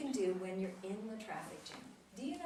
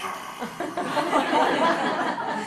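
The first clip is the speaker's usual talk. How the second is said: tongue sticking out; 6 semitones higher, 16 dB louder than usual. Shown as a demonstration. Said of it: "I'm going to stick my tongue out at you".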